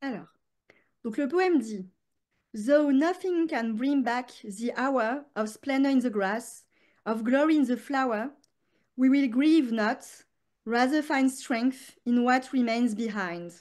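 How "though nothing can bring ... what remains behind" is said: put-on slow, measured poem reading in a French accent; French-accented English poem. Guest reads her grandmother's poem aloud, slow French-accented English. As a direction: recite Wordsworth slowly in French-accented English. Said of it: "faut pas se moquer de mon accent anglais".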